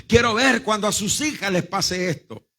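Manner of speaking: retold bitter challenge; offended retort. Mother throwing a curse at the pastor, offended. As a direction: imitate a resentful curse, mildly. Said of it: "me lanzó una palabra de maldición".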